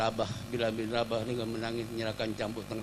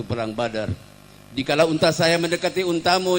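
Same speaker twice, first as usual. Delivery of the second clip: mildly raised, insistent voice; forceful complaint; 2 semitones higher, 7 dB louder than usual. Acted. Ukasyah confronts the Prophet over the whip, forcefully. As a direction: press the grievance firmly and loudly.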